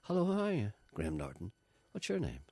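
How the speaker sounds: a light mock of a chatty young host; breezy host greeting, lightly sketched; early Graham Norton. Mimicking the young Graham Norton greeting a guest, lightly voiced. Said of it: "that kind of Graham Norton".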